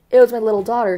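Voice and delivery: a touch of sad pride in the daughter; proud yet mournful, understated; doleful pride. Acted. Parsons tells Winston who denounced him, mildly proud. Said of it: "with a sort of doleful pride".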